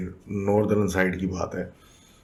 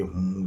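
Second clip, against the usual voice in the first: drawn-out "hmm" signal; imitated hum. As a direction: copy a wordless hum, stretched out. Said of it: "وہی آواز نکال کے". (ہوں کی آواز کی نقل)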